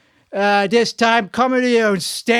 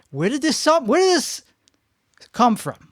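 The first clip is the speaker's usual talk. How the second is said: mock bewilderment; 6 semitones higher than usual. Real, not acted. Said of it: "where did this sound".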